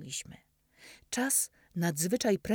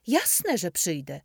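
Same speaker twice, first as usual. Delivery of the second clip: genuine enthusiasm; 6 dB louder than usual. Acted. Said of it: "z prawdziwym entuzjazmem".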